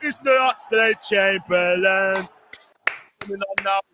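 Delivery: mock ring-announcer build-up; announcer call. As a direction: stretch every syllable like a ring announcer. Announcing a substitution.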